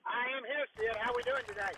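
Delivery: muffled phone line from a car; through a tube. Real, not acted. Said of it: "Your phone sounds like you're in the, in the tube".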